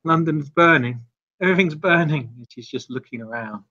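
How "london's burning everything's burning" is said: higher, mildly panicked voice; freaking out a bit. Acted. Vampire seeing London burn around her, freaking out a bit. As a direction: voice a touch of rising panic. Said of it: "freaking out a bit here".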